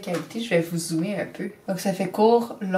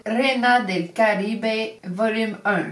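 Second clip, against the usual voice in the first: playful Spanish accent; slower than usual. Shown as a demonstration. Vlogger reading out a palette's name to viewers, playful Spanish accent. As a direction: put on a light Spanish accent. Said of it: "Aimez-vous mon accent?".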